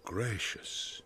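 a single word breathed out; whisper. Acted. Bottom planning his ballad, whispering to himself. Bottom musing alone after waking.

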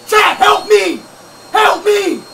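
shouted plea; desperate cry to chat for help; panicked call for help. Real, not acted. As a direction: yell for help to the stream. Stuck, begging chat.

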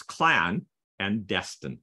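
"clan and destin" broken into separate words; split pronunciation. Shown as a demonstration. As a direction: pull apart "clan" and "destin" to show the pun. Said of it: "look at that one again because it's".

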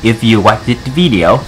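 put-on Vietnamese accent. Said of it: "I want to do this video in very thick Vietnamese accent".

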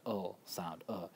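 "uh" as a short unaccented vowel; schwa sound. Shown as a demonstration. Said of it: "That's called a schwa".

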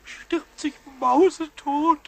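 slow melodramatic death moan; slow self-pitying mock death scene; hammed-up dying lament. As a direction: play dying tragically over nothing. Pumuckl dramatizes dying over scratch.

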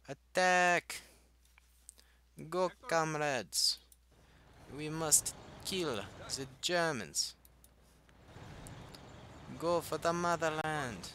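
high, slow mock Russian battle cry; badly faked Russian commander, drawn-out shouts; terrible Russian accent. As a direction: send troops charging in a hammed-up Russian accent. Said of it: "I have the worst accents".

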